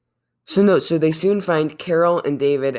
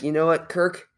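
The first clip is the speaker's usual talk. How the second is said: lightly voiced villain making an offer; slightly raised, measured villain voice; a hint of a bargaining villain; Khan; 3 semitones higher than usual. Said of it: "you didn't like my Khan voice?".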